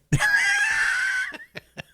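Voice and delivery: high squealing laugh; helpless laughter. Real, not acted. Host cracks up at the dirty joke, high laughter.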